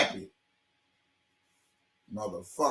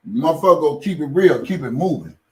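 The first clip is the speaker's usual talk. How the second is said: loud retort; 6 dB louder than usual. Real, not acted. Shouting at critics.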